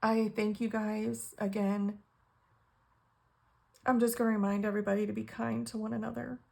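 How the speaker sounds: tearful but keeping it together; close to blubbering. Real, not acted. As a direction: get the thanks out before crying. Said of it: "become a blubbering idiot again".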